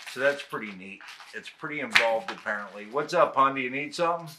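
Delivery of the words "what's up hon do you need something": calling out. Real, not acted. Calling out to wife nearby.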